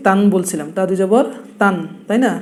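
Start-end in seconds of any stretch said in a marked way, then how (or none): 0.8-1.7 তান with aa closed by n; demonstrated tanween. Shown as a demonstration. Teacher reminding learners what was drilled, demonstrating তান. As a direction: spell it, then sound তান with a clear n. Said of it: "তা দুই জবর কি বলছি".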